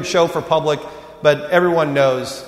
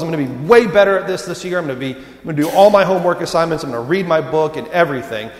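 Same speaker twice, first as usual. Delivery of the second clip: eager student promise; 2 semitones higher, 3 dB louder, faster than usual. Retold or imitated. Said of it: "they promise themselves".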